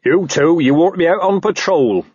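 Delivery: barked order. A narrator's reading. Sergeant sends two officers on patrol, barking. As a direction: bark it out as an order. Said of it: "barked Sergeant Strong in the Arm".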